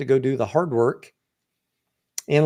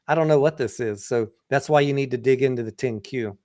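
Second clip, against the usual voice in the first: usual speaking voice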